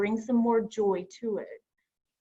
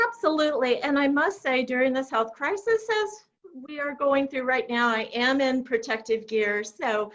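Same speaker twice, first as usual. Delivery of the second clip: muffled by a mask; 4 semitones higher than usual. Real, not acted. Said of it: "trying to talk through the mask".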